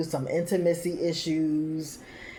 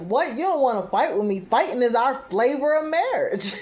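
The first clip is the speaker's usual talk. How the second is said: mock outrage; 7 semitones higher than usual. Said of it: "Nikki's like".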